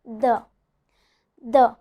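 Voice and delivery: "the" with a buzzing voiced TH, set apart; "the" on its own, TH with the voice switched on. Shown as a demonstration. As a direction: say "the" as a model of voiced TH. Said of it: "So the voiced one".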